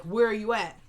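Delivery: mildly mad, retold demand; retelling a mad man's curt question. Mad boyfriend demanding her whereabouts by phone, mildly angry. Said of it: "Benny's mad as heck".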